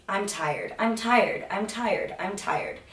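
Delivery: imitating a worn-out mantra; a hint of old exhaustion, drifting away; mock weary repetition. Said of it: "I remember saying that constantly".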